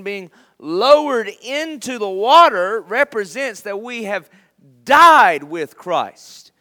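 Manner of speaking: loud, high, drawn-out key words; forceful preaching. Real, not acted. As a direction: proclaim it to the congregation, stretching and punching big words. Preaches on meaning of baptism.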